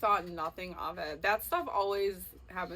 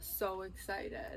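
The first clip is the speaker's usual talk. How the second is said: slow whispered thrill; slow breathy whisper of excitement; excited whisper; 3 semitones lower, 11 dB quieter, much slower than usual. Real, not acted. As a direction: hush it out, slowly, giddy. Whispered aside.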